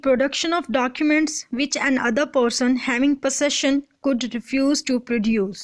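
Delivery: reading the legal text slowly, word by word; measured slow legal read; slow statute reading. Acted. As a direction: dictate the article to students. Reads statute text slowly aloud.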